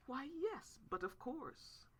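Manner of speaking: lightly hammed-up society lady; highfalutin mimic. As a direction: put on airs like a snob. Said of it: "mimicking a highfalutin type of person".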